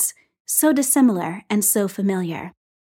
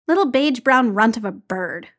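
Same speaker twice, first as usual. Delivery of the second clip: grumbling. Acted. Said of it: "Clint grumbled".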